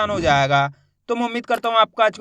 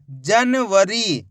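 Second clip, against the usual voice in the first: slow dictation; much slower than usual. Shown as a demonstration. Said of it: "उसके बाद जनवरी".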